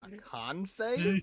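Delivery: incredulous. Real, not acted. Shocked by a con save roll.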